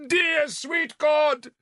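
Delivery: high, loud, slow bellow. Acted. Bishop on the rocks bellows to God, high, loud and slow. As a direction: bellow it to the sky. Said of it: "Sansom bellowed".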